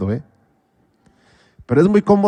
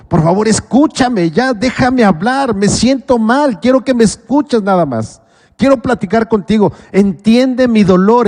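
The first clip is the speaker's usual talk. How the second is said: pleading; 5 semitones higher, 4 dB louder than usual. Retold or imitated. Pleading to family to listen.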